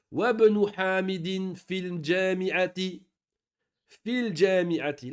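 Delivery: Wabnu Hamidin fil jami'ati slowly, wa joined to bnu and fi joined to l; linked, slow. Shown as a demonstration. Teacher reading the example sentence slowly, showing the liaisons. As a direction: sound every linked syllable slowly, no break before bnu. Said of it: "On fait la liaison".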